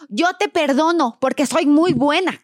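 mild pouty "yo te perdono"; tantrum forgiveness. Shown as a demonstration. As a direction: forgive like a child throwing a fit, lightly. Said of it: "el tono de mi voz fue más, más alto".

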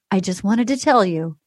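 low, measured mock host; imitating Chris Harrison. Host reassures waiting Claire, mock-solemn. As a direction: drop low and draw out the praise. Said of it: "And he goes".

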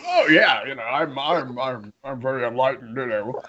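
mock-proud and pleased with himself; smug self-satisfaction. Husband recalling how awesome he thought he was, smug. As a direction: lightly parody your own self-congratulation. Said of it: "feeling pretty proud of myself".

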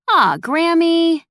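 high, loud, slow drawn-out whine on Aw; playful whine. Acted. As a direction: tease grandma with a long whiny Aw. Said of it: "Nettie whined playfully".

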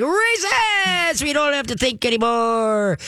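dog giddily thinking recess has started; excited dog. Retold or imitated. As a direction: shriek it like a kid let out to play. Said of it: "It's like".

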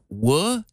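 "wo" said alone as "wuh", rising; syllable demonstration. Shown as a demonstration. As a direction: hold out "wo" as a separate first syllable. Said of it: "syllables here. Like".

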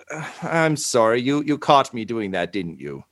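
sheepish, deflating confession; flustered. Acted. Host caught spinning his chair, flustered and trailing off. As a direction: let the grand act collapse into a falling mumble. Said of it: "a little bit flustered".

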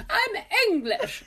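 half-crying laughter on "I'm English"; laughing "I'm English". Retold or imitated. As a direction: squeal it through laughter. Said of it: "I went".

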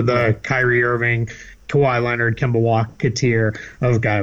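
slipping into a Boston accent, r dropped; Boston accent sneaks out on Kemba Walker. Real, not acted. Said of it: "my Boston accent just came out there big time".

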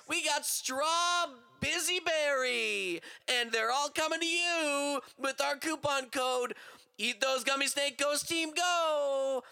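mock ad read. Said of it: "Nikki, you try".

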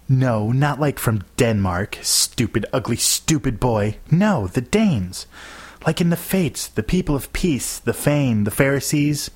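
high, drawn-out exasperated correction; exasperated hiss. A narrator's reading. Girl correcting a clueless boy about the Danes, exasperated near-hiss. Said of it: "She almost hissed in my face".

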